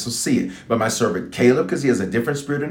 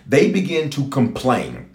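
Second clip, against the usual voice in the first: slow emphasis; slower than usual. Real, not acted. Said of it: "repeated for emphasis".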